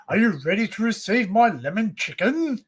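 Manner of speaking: hammed-up theatrical question; pompous orator playing it for laughs; mock declamation. Joking to friends with a meme parody, mock declamation.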